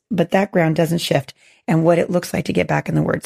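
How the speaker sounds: hoarse, gravelly voice; talking through a rough throat. Real, not acted. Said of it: "my little gravelly, sultry voice".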